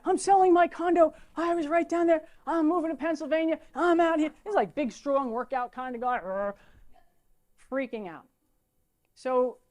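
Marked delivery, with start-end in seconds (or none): 0.0-4.3 higher, louder, mock panicky broker; hammed-up frightened rush; a Wall Street broker imitated in a light panic; imitating panic. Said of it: "he was freaking out".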